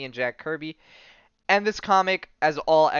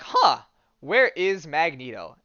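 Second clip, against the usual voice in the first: puzzled henchmen; 4 dB louder, slower than usual. Retold or imitated. Mutants asking each other where their leader is, puzzled. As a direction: sound like lost lackeys wondering where the boss went. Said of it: "they're all like".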